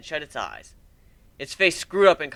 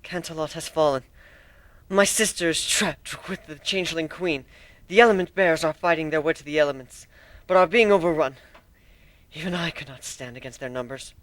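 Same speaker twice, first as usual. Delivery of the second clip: exhausted; 3 semitones higher than usual. Acted. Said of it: "too tired to be upset".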